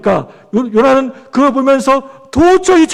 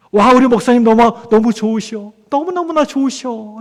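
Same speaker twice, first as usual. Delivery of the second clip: adoring church member. Acted.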